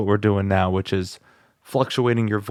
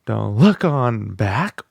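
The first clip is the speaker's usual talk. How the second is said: slow, louder, belly-powered delivery; 4 dB louder, much slower than usual. Shown as a demonstration. Student adds belly power to the lyric. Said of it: "now we're going to add the power".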